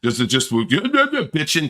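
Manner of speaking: imitating a whining child; slow mock toddler fussing; mock tantrum. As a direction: drag it out like a sulky kid. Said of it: "like a child having a tantrum".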